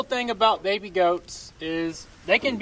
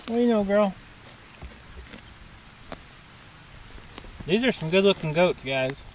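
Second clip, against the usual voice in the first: talking while chewing gum. Real, not acted. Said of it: "I had chewing gum in my mouth".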